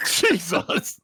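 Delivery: loud, high astonished gasp of a word; shocked exclamation. Real, not acted. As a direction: blurt it out in disbelief. Huge damage roll shocks table.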